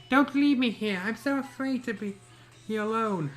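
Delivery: high, frightened plea; scared pleading. A narrator's reading. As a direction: beg like a scared child. Begging not to be left.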